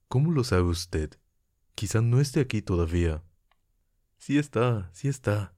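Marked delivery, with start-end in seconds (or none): 4.2-5.5 sí está pressed firmly both times, first sí higher; insisting. A narrator's reading. Nastenka insisting to the narrator that he has come, with a firm repeated sí está. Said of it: "insistió Nastenka".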